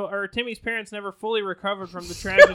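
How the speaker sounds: laughing while reading. Real, not acted. Laughs while reading sad story.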